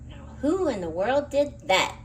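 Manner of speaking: loud, startled demand; exclaimed. A narrator's reading. Night watchman calling out after hearing a crash. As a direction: call out into the dark store, alarmed. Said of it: "he exclaimed".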